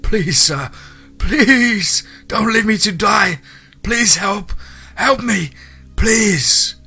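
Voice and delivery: high, loud desperate begging; crying, pleading. A narrator's reading. Man chased by a bear begs for rescue, high tearful pleading. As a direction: plead tearfully at the top of your range. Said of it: "I could see he was crying".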